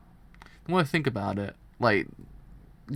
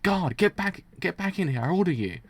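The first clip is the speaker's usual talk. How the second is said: shouted order, higher and louder; calling the guard; 5 semitones higher, 4 dB louder than usual. Acted. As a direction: bark for the guard to come back.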